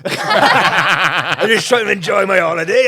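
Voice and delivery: hammed-up cry of a bothered tourist; alarmed holidaymaker, mocking. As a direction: play the startled stranger, half laughing. Acts out the person being approached.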